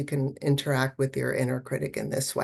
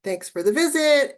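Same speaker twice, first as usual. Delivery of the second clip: gentle acknowledgement; 6 semitones higher, 4 dB louder than usual. Pretend. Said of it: "can you just gently say".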